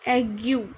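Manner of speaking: name the accent aigu in French. Shown as a demonstration. Teacher naming accent aigu. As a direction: say aigu as ah-gyoo. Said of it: "ये accent है".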